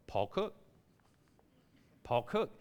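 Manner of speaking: soft, low, hopeful interjection; understated nudge to the clerk; meek prompting. Retold or imitated. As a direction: quietly slip the name in. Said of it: "fed up with me going".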